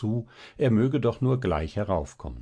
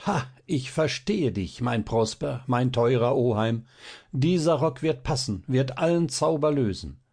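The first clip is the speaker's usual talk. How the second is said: mild excitement; 4 semitones higher than usual. Acted. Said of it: "rief Balthasar begeistert".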